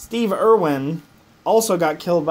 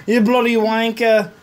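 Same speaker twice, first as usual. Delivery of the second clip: mock British accent; 3 semitones higher, 3 dB louder than usual. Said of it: "you got to talk like a British person".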